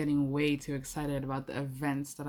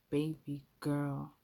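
slow pet name; slower than usual. Acted. Lover purring a pet name.

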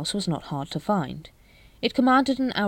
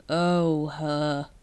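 understated gloom, falling away; gloomy. A narrator's reading. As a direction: say it with sinking recognition. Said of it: "said Vimes gloomily".

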